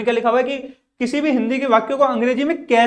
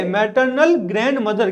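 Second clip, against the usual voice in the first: slow model answer; slower than usual. Shown as a demonstration. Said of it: "pronounce करो इन चीजों को".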